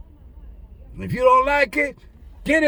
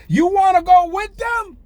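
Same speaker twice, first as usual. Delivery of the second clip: firm Jesus quote; 5 semitones higher, 4 dB louder than usual. Retold or imitated. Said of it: "He said".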